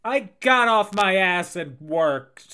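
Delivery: lightly mimicked, drawn-out boast; Kim Kardashian. Comedian answering as the celebrity, Kim Kardashian impression. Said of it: "that's my Kim Kardashian impression".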